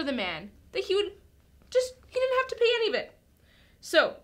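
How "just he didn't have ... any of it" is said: ordinary delivery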